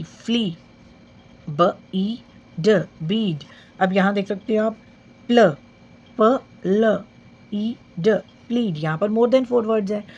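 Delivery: slow blends like बीट, मील, पीक, रीड; long ई sounding out. Shown as a demonstration. Teacher sounding out long ई words letter by letter. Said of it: "कुछ words हैं जिसको हम रीड कर सकते हैं".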